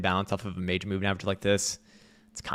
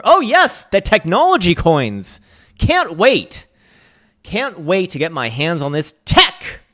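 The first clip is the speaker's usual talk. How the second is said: much higher and louder hammed-up squeal; mock tech bro squeal; 8 semitones higher, 9 dB louder, slower than usual. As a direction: shriek like an overexcited crypto bro. Mocking tech-bro hype.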